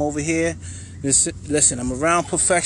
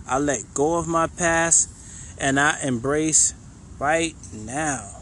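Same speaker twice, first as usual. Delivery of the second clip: slow affirmation; slower than usual. Shown as a demonstration. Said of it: "the last one we're gonna do".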